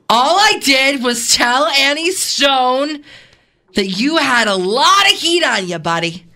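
put-on Southern, stretched vowels; Southern accent. Co-host carrying on the movie scene, Southern accent. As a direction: lean into a wandering Southern accent. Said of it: "Now I'm Southern".

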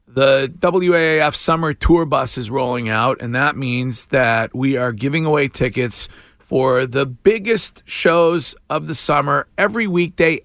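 energetic DJ contest announcement; radio contest promo. Acted. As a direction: pitch the giveaway like a radio DJ.

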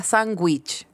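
sandwich slowly as "san-GWICH". Shown as a demonstration. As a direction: put GU in place of the D in sandwich. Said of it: "con G".

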